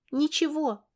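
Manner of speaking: put-on high, whining little-girl "ничего"; whiny child. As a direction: whine it like a sulking girl. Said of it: "проныла она".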